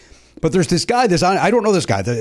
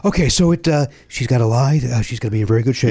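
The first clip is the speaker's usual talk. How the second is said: out of breath; 3 semitones lower than usual. Acted. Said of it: "say I sound out of breath".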